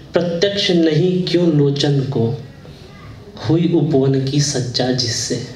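lilting verse with drawn-out words; poem recitation. Acted. Poet wonders at the garden's beauty before listeners, lilting recitation. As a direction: recite musically, lingering on the phrases.

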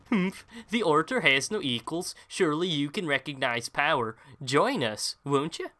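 put-on a proud villain tempting his old friend; haughty villain. Boss knight invites his old friend to join, haughty and high.

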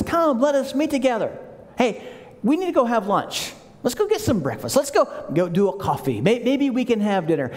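mock friendly invitation. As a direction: sweet-talk him into lunch. Enemy's fake friendly invitation.

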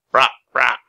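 loud, repeated bird croak; raven's croak. A narrator's reading. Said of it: "croaked the raven".

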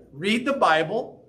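slow, gentle, loving advice; a touch of loving firmness; lovingly. Pretend. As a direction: gently tell them to just read it. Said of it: "very lovingly say".

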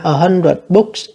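slow, careful reading of the test sentence; slow dictation read. Shown as a demonstration. Teacher reading an exam sentence to learners, slow and careful. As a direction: read it out slowly for students.

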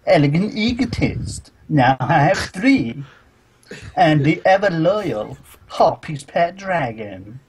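high, slow, hammed-up card callouts; mock anime duelist. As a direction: ham up a cartoon duelist naming her cards. Voicing the Mai character's lines.

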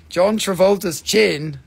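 slow, loud exclamation; loud, drawn-out reveal; loud announcement. Real, not acted. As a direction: announce it big and slowly. Announcing a joke likeness of rock.

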